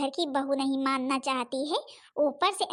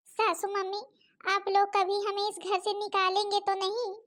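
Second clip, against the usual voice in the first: timid pleading bahu; 5 semitones higher than usual. Acted. Bahu pleads with mother-in-law.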